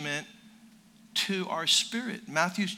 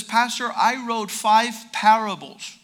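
slow, louder imitated announcement; mock proud announcement; 5 dB louder than usual. Young man on mission field tells pastor, mock proud. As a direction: imitate someone announcing his achievement slowly.

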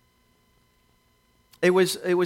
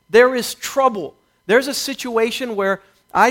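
angry refusal; 3 semitones higher, 3 dB louder than usual. Retold or imitated. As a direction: refuse it with rising heat.

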